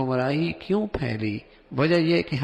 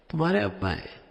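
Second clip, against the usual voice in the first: higher-pitched astonished question; surprised; 5 semitones higher than usual. Shown as a demonstration. Child and father look unalike, surprised. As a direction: act taken aback by the lack of resemblance. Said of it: "حیرت کا اظہار ہے".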